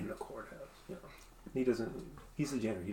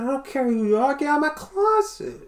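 higher, louder furious shout; angry janitor; 13 semitones higher, 6 dB louder than usual. Acted. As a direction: throw them out of the closet. Janitor yelling at intruders.

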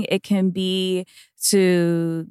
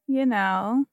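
muffled closet recording; small boxed-in room sound; inside a closet; 4 semitones higher, much slower than usual. Real, not acted. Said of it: "I'm in the closet".

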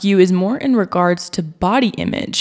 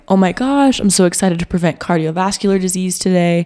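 mock excited. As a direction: fake enthusiasm, hammed up. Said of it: "I'm not waking up every morning like".

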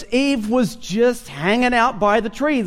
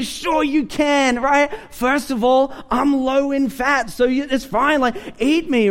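lightly voiced tempting donut, a little higher; 3 semitones higher than usual. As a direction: coax like a sweet treat. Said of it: "And they say".

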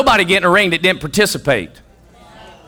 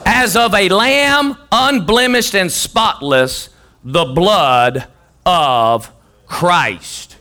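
slow, weighty reading; slow solemn reading of the blood of Christ; solemn scripture reading; much slower than usual. Acted. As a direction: draw out the verse reverently.

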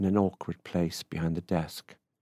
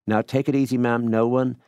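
raised, louder placating protest; 5 semitones higher, 6 dB louder than usual. A narrator's reading. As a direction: hurry to calm her down, voice lifted. Man placates the angry woman.

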